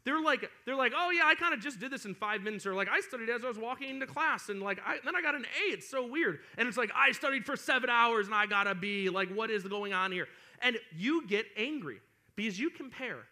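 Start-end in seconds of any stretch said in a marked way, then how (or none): 0.9-2.7 high, loud offhand boast; mock-carefree bragging; breezy classmate. Acting carefree top student. 2.9-6.4 higher-pitched airy mock boast; imitating a carefree student; breezy classmate. Acting carefree top student. 6.9-10.3 louder mock outrage; acted frustrated complaint; exasperated student. Acting exasperated hardworking student.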